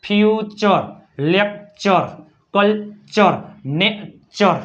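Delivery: ફ્યુચર, લેક્ચર, કલ્ચર, નેચર split before a clear "chor"; demonstrating "-chor" ending. Shown as a demonstration. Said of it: "R E આવતું હોય તો ઓર". (ફ્યુચર, લેક્ચર, કલ્ચર, નેચરમાં "ચર" છૂટું પાડીને)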